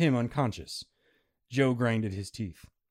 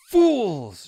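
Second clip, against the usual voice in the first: loud high witch cackle; cackling witch; 10 semitones higher, 10 dB louder than usual. Acted. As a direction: spit it out like a gleeful hag. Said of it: "she cackled".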